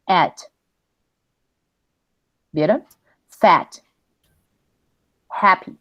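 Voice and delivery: "At", "Fat", "Happy" with a short A and E run together; blended A-E vowel. Shown as a demonstration. Teacher models the vowel for students, blended A-E. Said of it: "a la vez las pronuncio, fíjense".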